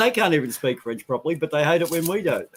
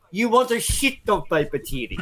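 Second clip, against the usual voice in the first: taking the piss; 5 semitones higher than usual. Retold or imitated. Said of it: "took the piss out of him".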